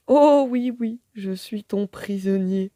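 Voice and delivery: the smitten parrot answers his captor; lovestruck stammer. A narrator's reading. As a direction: stammer it, besotted. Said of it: "bredouille-t-il".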